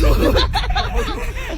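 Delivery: loud laugh. Real, not acted. Laughing at prank plan.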